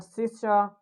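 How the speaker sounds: "sister" with British dropped R; British accent. Shown as a demonstration. Teacher shows students the dropped R, British accent. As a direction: end "sister" on an open vowel, British style. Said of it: "If we'll talk about British".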